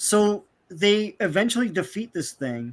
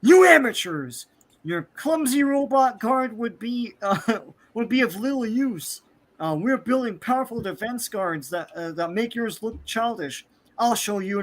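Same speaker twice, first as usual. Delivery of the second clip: arrogant sneer; 5 semitones higher than usual. Retold or imitated. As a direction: look down on them like a pompous hero. Sun Boy sneering at the subs.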